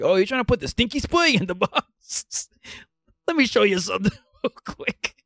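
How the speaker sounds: a laughing, loosely Southie janitor voice; weird Boston accent. Pretend. Janitor to confused student, half-hearted Boston accent. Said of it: "Why are you talking like that".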